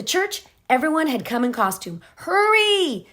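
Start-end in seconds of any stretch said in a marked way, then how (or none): 2.2-3.1 high, loud urgent call; urgent hurry. Acted. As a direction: rush them out. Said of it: "the choir director said".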